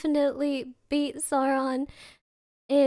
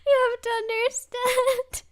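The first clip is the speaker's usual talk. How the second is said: laughing; 8 semitones higher than usual. Real, not acted. Pleading through laughter.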